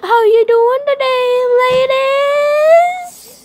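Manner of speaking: very high, very loud put-on teenage girl voice. Greeting the ladies as a joke: put-on teenage female voice. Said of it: "That's my teenage female voice".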